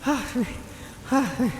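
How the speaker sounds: desperate as it eats you alive; high frantic anguished cries; panicked struggle. Acted. Peter struggles with the suit.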